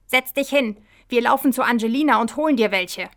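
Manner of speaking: loud, hurried instruction; urgent order. Acted. Michi rushes off to help dizzy Kahit, urgent and loud. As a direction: take charge quickly and firmly.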